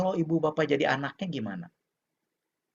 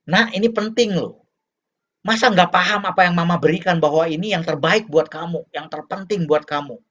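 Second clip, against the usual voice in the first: lecturing parent; 3 semitones higher, 4 dB louder than usual. Acted. Mother telling her child it's for their good, insistent. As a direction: press the point on the child, then settle. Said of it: "Artinya ketika dia ngomong".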